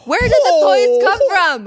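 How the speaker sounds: loud, high mock revelation; excited. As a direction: build it up like a big reveal. Mock dramatic reveal about Santa.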